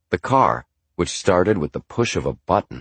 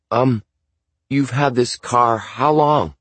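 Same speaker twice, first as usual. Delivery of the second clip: put-on young narrator voice; 6 semitones higher, 4 dB louder than usual. Narrator's young self questions dad.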